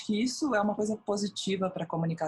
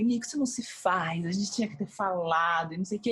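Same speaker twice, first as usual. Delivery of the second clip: retold anger. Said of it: "eu saí brava".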